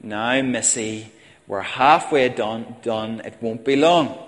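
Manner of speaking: put-on calm a fussing toddler; lightly voiced patient mother; mock patient mother. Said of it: "the mother patiently said".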